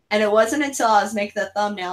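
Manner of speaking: normal talking voice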